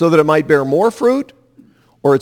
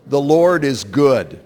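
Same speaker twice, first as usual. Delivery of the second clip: slow call-and-response; 4 semitones lower, slower than usual. Shown as a demonstration. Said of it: "Say that again".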